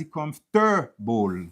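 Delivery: comfortable as "comf-TER-bowl"; wrong middle stress. Shown as a demonstration. Teacher showing what sounds bad, stress on second syllable. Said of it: "ou pa ka di".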